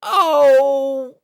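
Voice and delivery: high, loud gasp; startled cry. Acted. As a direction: react in shock. Twilight sees the mess.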